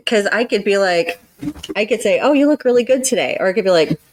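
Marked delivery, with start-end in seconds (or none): 2.2-3.4 high, mock-sweet sarcastic praise; sarcastic compliment. Shown as a demonstration. A counselor shows her listener a snide tone, sarcastic. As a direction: say it so the compliment sounds fake. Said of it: "That sounds totally different".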